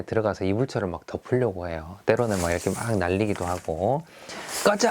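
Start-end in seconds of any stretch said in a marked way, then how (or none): 4.6-4.9 long, high cry of release. Shown as a demonstration. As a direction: let it out on one stretched syllable. Demonstrates children yelling while throwing.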